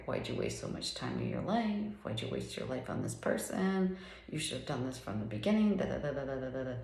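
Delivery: the addict's inner critic nagging about wasted years; critical inner voice. Pretend. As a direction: scold yourself like a harsh inner voice. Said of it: "that was the voice saying".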